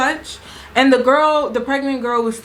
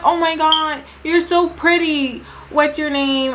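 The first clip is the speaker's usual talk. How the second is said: gushing; 5 semitones higher than usual. Retold or imitated. Pregnant girl gushing over speaker.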